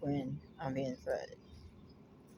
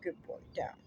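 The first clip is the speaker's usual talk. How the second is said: hushed command; 6 dB quieter than usual. Real, not acted. Quietly commands her dog Rocky.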